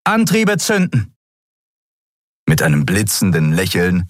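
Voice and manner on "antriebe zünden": high, ringing order; captain shouting the order to fire the engines; loud command. A narrator's reading. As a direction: call it out to the crew. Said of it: "befahl laut".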